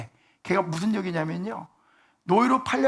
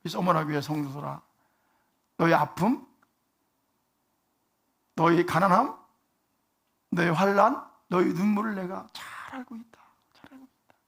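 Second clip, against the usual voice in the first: sad tender. Shown as a demonstration. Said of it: "불안하게 말씀하는 것이 아니라".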